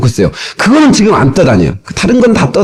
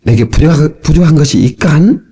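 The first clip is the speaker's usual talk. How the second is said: Pyongyang dialect. Retold or imitated. Preacher reads the psalm to his congregation in imitated Pyongyang dialect. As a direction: recite it in mock Pyongyang dialect. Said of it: "요즘 평양도 말도 나오고".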